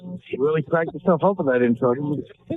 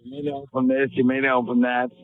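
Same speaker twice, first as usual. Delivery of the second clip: mocking the intro. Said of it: "Just cackling to yourself".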